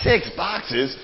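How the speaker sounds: hammed-up nasal American accent with "boxes" stretched; a cartoon American twang, pitch pushed up; mock American accent. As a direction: play a nasal American tourist saying "Six boxes?". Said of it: "Gets all nasally and stuff".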